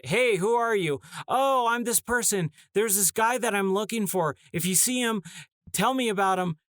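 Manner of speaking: lightly voiced cheerful game characters; mock game dialogue. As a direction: parody a flat video game exchange. Mocking the game's bland dialogue.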